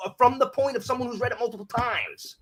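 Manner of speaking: very high-pitched, indignant rant; exasperated questioning. Real, not acted. Demanding why rereaders argue with a first reader, exasperated. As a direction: climb high in sheer disbelief. Venting at fans who argue.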